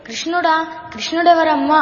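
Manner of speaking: put-on boy asking his mother who Krishna is; wondering question. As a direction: ask it like a boy puzzled by a new name. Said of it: "వింతగా అడిగాడు".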